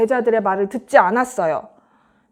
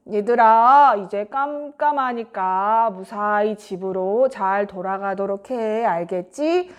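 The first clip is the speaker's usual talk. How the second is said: lower, slow kindly instruction; a hint of a teacher sending people off, lower; lightly voiced Jesus; 5 semitones lower than usual. Jesus sending the crowd home at night, lightly lowered slow voice.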